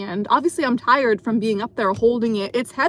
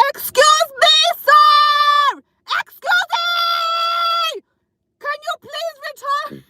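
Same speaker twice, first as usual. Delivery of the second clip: put-on loud, high Russian-accented shout from the pole; 6 dB louder, slower than usual. Dancer on the pole yelling at a customer, loud Russian accent. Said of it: "out comes my Russian accent".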